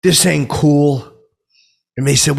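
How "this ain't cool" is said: slow, louder and higher protest; indignant. Retold or imitated. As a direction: lay down the law slowly. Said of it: "And I'm like".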